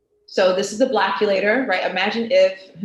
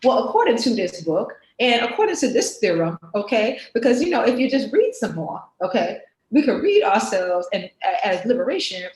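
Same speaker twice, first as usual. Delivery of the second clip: louder, lecturing know-it-all professor; pompous academic; 2 semitones higher, 5 dB louder than usual. Acted. The Blackademic character lectures, pompous and louder. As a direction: hold forth like a smug academic. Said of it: "the Blackademic".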